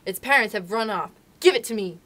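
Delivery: a hint of a hungry tiger; tiger demanding the cub. Tiger at the cave mouth demanding the man cub, a hint of growl.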